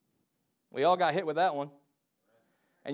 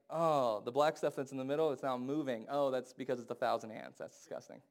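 softer, fading to an unvoiced disgusted whisper; disgusted discovery; 4 semitones lower, 6 dB quieter than usual. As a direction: recoil at the ants quietly. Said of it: "you're like".

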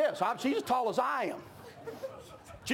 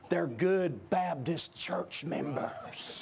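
wry aside; 7 semitones lower, 3 dB quieter, much slower than usual. Retold or imitated. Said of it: "I said".

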